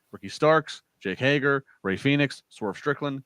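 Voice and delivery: usual speaking voice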